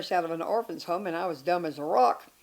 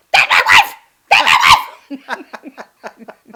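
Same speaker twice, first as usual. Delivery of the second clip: mock lament; 5 semitones higher, 16 dB louder than usual. Imagined ex-husband lamenting.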